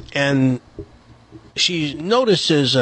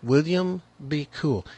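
mock calm; 6 dB quieter than usual. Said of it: "you just kept calm and were saying things like".

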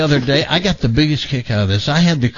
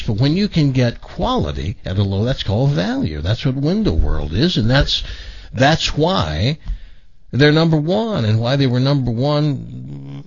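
deliberate radio pitch, slowing on key phrases; live ad read. Acted. Radio host pitching the window sponsor, measured ad-read delivery. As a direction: sell it to listeners, stretching the selling points.

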